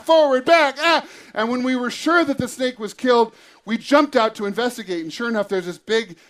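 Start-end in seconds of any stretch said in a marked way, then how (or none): 0.8-1.1 retold scream.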